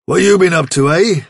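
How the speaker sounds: a father questioning his daughter; gruff question. Acted. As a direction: challenge the girl.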